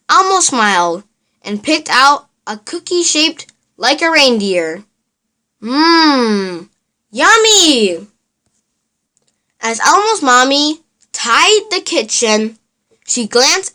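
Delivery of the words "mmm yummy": yummy delight. Acted. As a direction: savour the cookie with glee. Elmo tastes a cookie.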